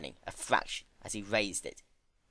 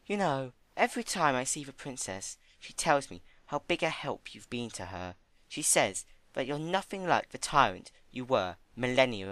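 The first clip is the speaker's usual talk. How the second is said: gentle Fluttershy; 4 semitones higher than usual. Acted. Fluttershy voiced.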